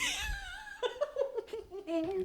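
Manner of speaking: high delighted laugh; a quick real laugh, high and soft; burst of laughter. Real, not acted. Host laughing at her co-host's comment, real laugh.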